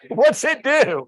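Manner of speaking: put-on high, loud kid question; imitated child's wide-open curiosity; curious child. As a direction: ask like a baffled little girl. Imitates girl asking about CD player.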